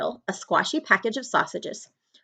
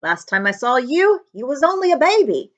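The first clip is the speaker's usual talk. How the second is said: higher, louder rustic giant voice; fond giant; 6 semitones higher, 4 dB louder than usual. Acted. The giant tells Harry he saw him as a baby, higher and fond. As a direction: beam at the boy he once knew. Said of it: "said the giant".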